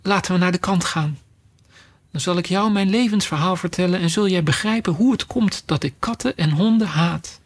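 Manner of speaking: mildly tremulous mouse; soft, trembling. Acted. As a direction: gently propose it, a little shaken. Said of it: "hij zei met zachte, trillende stem".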